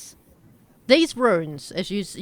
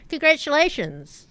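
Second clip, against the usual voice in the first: excited announcement. Acted. GM announces twist to players.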